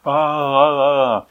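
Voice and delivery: soft, wavering delirious "ah"; mock feverish babbling moan. Mimicking someone with a high fever, delirious. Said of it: "high fever and they're delirious".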